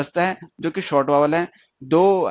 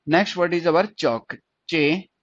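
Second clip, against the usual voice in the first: slow dictation; much slower than usual. Shown as a demonstration. Repeats word slowly for students.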